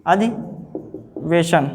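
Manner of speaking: अधिवेशन drawn out slowly and softly; slow dictation. Shown as a demonstration. Teacher dictating to students, slow and soft. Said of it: "अधिवेशन में जानते ही हो".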